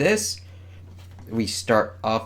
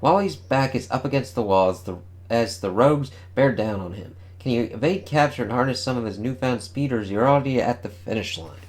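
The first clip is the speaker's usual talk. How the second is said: announcer read. Acted. Reads comic solicitation text.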